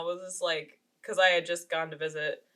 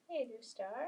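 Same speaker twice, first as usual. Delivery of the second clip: puppy talk; 5 semitones higher, 11 dB quieter than usual. Real, not acted. Cooing at her puppy.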